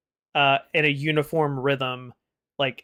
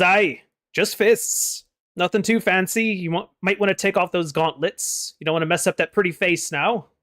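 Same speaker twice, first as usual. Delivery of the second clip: Onthar's voice; 4 semitones higher, 3 dB louder than usual. Acted. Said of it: "Onthar says".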